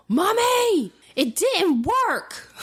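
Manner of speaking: put-on high, drawn-out little girl's wail of disappointment; child's sad call. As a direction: mimic a small daughter calling from the bathroom.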